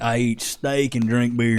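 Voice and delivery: lightly voiced carefree old-days guy, slowed down; slow, drawn-out mock quote; everybody back then. Host quoting how everybody talked back in the day, lightly imitated. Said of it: "Everybody back in the day was like".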